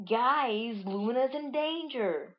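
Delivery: high cartoon alarm call; urgent high-pitched character cry; Bounce's voice. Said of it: "Bounce is like".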